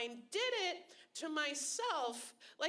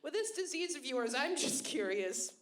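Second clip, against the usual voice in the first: imitating friend; 4 semitones higher than usual. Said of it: "He was like".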